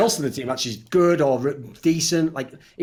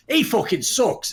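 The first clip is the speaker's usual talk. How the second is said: slow mock sneer; 9 semitones higher, slower than usual. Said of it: "look who did the worst and go".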